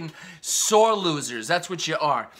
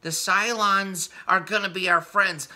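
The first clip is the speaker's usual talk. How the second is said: slow, higher, simple-minded voice; mock naive dummy; 4 semitones higher, 3 dB louder, slower than usual. Ranter mocking Schumer as the naive Battlestar character, slow and dim. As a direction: drag it out like a gullible fool. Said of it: "that fucking dummy on Battlestar Galactica who's like".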